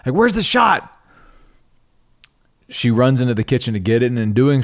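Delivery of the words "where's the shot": much higher, hammed-up movie-scene yell; Pulp Fiction style. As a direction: play it like a frantic movie scene. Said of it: "like that scene out of Pulp Fiction".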